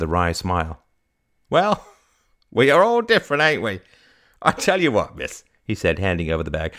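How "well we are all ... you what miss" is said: high, loud, chuckling; old fruit vendor, good-humoured. Acted. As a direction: chuckle and concede genially.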